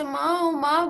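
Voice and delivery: loud call. Acted. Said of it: "Mohan जोर से".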